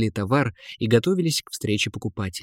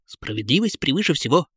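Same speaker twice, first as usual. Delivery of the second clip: fervent piglet; 3 semitones higher than usual. A narrator's reading. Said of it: "горячо отвечал поросёнок".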